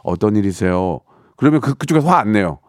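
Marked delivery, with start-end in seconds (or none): 0.0-1.0 polite gentle reply. Retold or imitated. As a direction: answer the knock kindly and calmly. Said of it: "이렇게 하지 말고".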